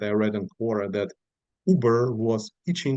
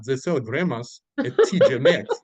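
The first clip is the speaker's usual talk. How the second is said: laughing; 3 semitones higher, 4 dB louder than usual. Retold or imitated. Laughing at the misunderstanding.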